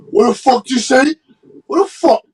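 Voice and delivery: loud, high outrage; outraged. Real, not acted. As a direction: blurt it out in disbelief. Outraged reaction.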